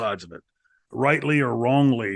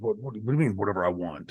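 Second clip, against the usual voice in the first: mock stunned, fearful stammering, stumbling over words; 3 semitones lower, 4 dB quieter than usual. Retelling a stunned reply to being told to say anything: retelling own terrified reply. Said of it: "terrified me".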